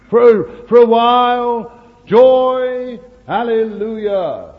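preacher mimicking short-lived joy, hammed up; mock joyful burst. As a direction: mimic shallow excitement.

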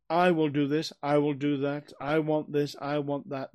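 each "I" hit hard at the start of every phrase; stress on I. Shown as a demonstration. Preacher mimicking the self-willed man, stressing "I". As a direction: lean on "I" like a self-centred demand. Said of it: "This is an emphasis on".

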